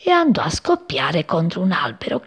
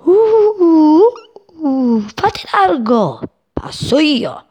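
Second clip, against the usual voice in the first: high, drawn-out howl of a rushing wind; angry gust crying out, slow and high; furious roaring wind; 9 semitones higher, 4 dB louder, much slower than usual. A narrator's reading. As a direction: whoosh and holler to clear the way. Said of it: "furioso gridava".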